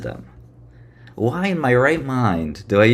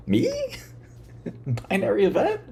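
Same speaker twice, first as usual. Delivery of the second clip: much higher, squeaky playing-dumb voice; mock innocent voice; 6 dB quieter than usual. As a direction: play dumb in a high little voice. Mock innocent self-questioning.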